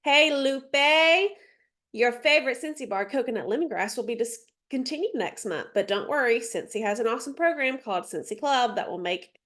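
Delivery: chatty, natural sales pitch; casual friendly pitch. Shown as a demonstration. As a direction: sound like yourself talking to a friend. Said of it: "make that sound like you".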